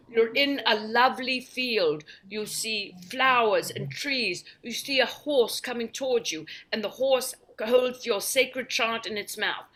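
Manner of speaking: a mild mock of a dreamy British tape; British meditation voice. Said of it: "I'm gonna listen to a British guided meditation".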